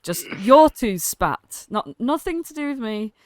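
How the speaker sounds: firmly wash your hands of it; Gleam. Acted. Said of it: "she's like".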